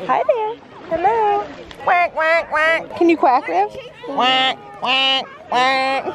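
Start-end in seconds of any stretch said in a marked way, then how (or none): 1.8-3.0 light, spoken duck quacks. Pretend. Mother quacking at the duck beside River, playful duck imitation. 4.1-6.0 evenly spaced, lower duck quacks. Pretend. Mother showing River how to quack, playful duck imitation.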